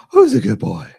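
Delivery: squeaky high pet voice. Pretend. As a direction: pitch way up for the pup. Second take, much higher.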